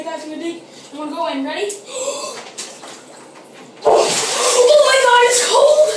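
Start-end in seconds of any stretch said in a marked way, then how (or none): 1.8-3.8 sharp gasp from the cold. Real, not acted. First dip into ice water. 3.9-5.9 high, loud, drawn-out cry; shocked cold yell. Real, not acted. Sitting down in ice water.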